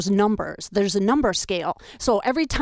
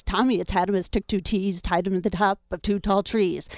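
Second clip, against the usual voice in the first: tongue twister recital. Shown as a demonstration. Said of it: "Sounds like this".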